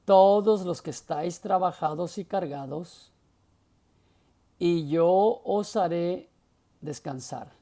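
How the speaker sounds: loud onset, long pauses after "cargados" and "haré"; marked pause reading. Shown as a demonstration. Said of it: "poniendo atención a las pausas".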